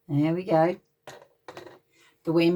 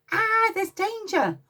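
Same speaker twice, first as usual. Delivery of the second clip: mild alarm; 12 semitones higher than usual. Acted. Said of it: "he thought".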